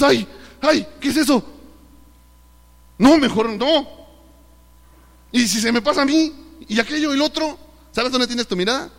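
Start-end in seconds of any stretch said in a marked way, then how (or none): 0.0-7.6 high, loud panicked yelps, voice pitched up; mock frightened cry. Preacher imitating a believer terrified by a screaming spirit, high hammed-up panic. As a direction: play the scared believer shrinking back from the screaming spirit.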